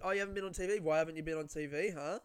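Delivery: mild mock needling, quick questions; ribbing. Girl at party needles comedian about TV, mock ribbing. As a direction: imitate someone teasingly pressing for an answer. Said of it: "ribbing me about it".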